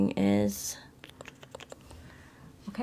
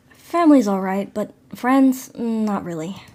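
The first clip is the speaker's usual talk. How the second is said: louder, punching "Family's" and "friends"; emphatic choice; 4 dB louder, slower than usual. Shown as a demonstration. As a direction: say it out like a decision. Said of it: "Let's see what happens if we say this one".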